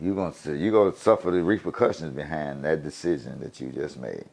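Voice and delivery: low, quiet inner warning; low-pitched murmur to oneself; to himself. Retold or imitated. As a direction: say it softly, as a private thought. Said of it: "To myself".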